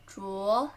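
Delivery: 镯 rising from low; careful rising tone on 镯; second tone. Shown as a demonstration. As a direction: lift the pitch through 镯. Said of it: "second tone".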